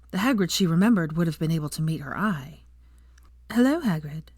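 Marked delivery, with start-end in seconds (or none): 3.5-4.2 a touch hesitant greeting; unsure, testing the waters; tentative. Acted. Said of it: "she said tentatively".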